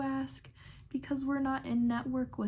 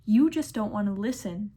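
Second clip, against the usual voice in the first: snapping back; 7 dB louder than usual. Retold or imitated. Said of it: "tell her over the drive-through phone".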